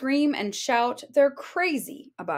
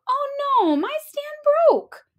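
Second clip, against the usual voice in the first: put-on far higher, louder small-child wail; little cub voice; 5 dB louder than usual. Baby Bear finds his broken stand, wailing high. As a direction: squeak it like a tiny upset cub. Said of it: "Then Baby Bear spoke".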